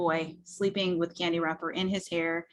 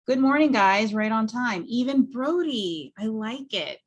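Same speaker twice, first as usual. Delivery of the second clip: higher, louder upbeat parent greeting; cheery parent; 4 semitones higher, 5 dB louder than usual. Acted. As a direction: beam at the kids, pleased they're on time.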